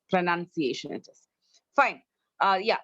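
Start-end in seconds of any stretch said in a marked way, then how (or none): 0.1-0.9 "pronunciation" with NUN as second syllable; correct pronunciation. Shown as a demonstration. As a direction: model "pronunciation" as pro-NUN-ciation. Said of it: "learn it".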